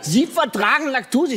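hammed-up shock at a normal answer; stunned disbelief. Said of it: "Und er war völlig überrascht".

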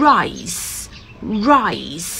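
"rice" falling, rounded r and hissed s; clear initial r. Shown as a demonstration. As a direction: model "rice" with distinct r and final s. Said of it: "เดี๋ยวจะออกเสียง". ("rice" เสียง r หน้า s ท้ายชัด)

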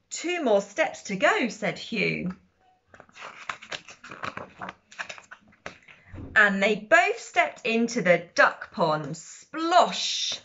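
lively, measured picture-book narration; sing-song storybook read-aloud; reading to children. A narrator's reading. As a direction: read it out clearly for little listeners, bouncing on animal noises.

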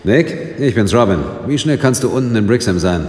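lauter, höher am Telefon; laut ins Telefon. Acted. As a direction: gegen die Leitung anreden. Calls Nick on the phone. (Robin ruft Nick laut am Telefon an)

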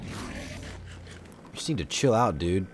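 slow breathy whisper to a mob; soothing whisper to an angry Enderman. Real, not acted. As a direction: hush it slowly like calming an animal.

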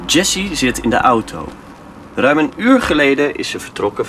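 lightly dramatic story reading; a measured radio play read; story narration. Acted. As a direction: tell the story to draw listeners in.

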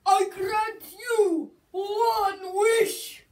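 slow, grand genie voice; granting a wish. Acted. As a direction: proclaim it like a genie.

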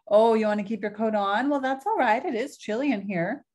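a hint of a sweet old grandmother; old Baba Brana. Baba Brana fusses over her guest's coat, lightly voiced old woman.

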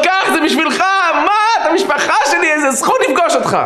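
high, gushing acted excitement; overjoyed. Rabbi handing sweets to the patient as family, high joyful gushing. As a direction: gush as to newly found family.

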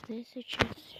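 whispered question to himself; barely voiced, just breath. Real, not acted. Gamer whispering to himself over picks, hushed. Whispering to self mid-match.

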